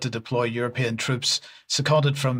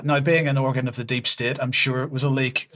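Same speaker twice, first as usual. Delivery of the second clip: sarcastic. Real, not acted. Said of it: "sarcasm over".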